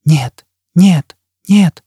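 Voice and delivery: high, frightened cries of "no"; frantic cry. A narrator's reading. Victim writhing before the burning man, frantic high cries. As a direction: cry out in panic, each word separate. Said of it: "кричало её судорожное дёрганье".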